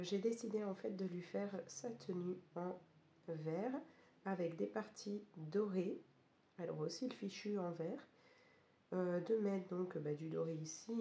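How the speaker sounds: hoarse, losing voice from a cold; croaky sick voice, mostly gone. Real, not acted. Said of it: "vous pouvez l'entendre avec une voix complètement cassée". (voix cassée et enrouée)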